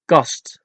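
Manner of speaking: Kast with no puff on K or T; unblown K and T. Shown as a demonstration. Teacher showing Dutch letters, Kast with unblown K and T. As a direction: say Kast in Dutch, K and T cut short. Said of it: "without blowing those three letters".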